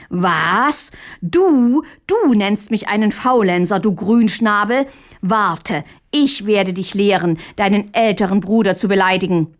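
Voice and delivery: furious, puffed-up roar; mildly voiced angry yell; bellowing. Offended older brother threatens Hähnchen, mild furious yell. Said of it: "brüllte noch lauter".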